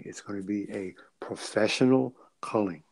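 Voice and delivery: careful and halting; choosing words carefully. Real, not acted. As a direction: weigh each word before saying it. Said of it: "Let me choose my words carefully".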